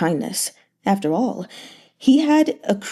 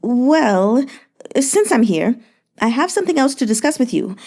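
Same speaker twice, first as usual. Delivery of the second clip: lightly raised, sweet-talking merchant; a fawning, flattering merchant, lightly voiced; Yan Hezhu's voice; 3 semitones higher than usual. Merchant flattering the grieving governor, sugary and light.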